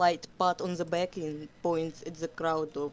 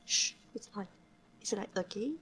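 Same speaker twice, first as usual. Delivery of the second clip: soft coaxing whisper; 3 semitones higher, 7 dB quieter, faster than usual. Acted. Sunface secretly coaching Flame Spots, whispered. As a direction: whisper the prompt to him.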